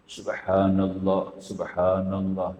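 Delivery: drawn out slow and low; slow tartil recitation; slow, careful. Shown as a demonstration. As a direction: recite each syllable slowly and carefully. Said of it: "baca dengan perlahan, dengan tertib".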